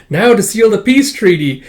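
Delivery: put-on high, loud childish announcement; Anya's voice. Anya making the dogs make peace, high proud voice. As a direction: proclaim it like a proud kid.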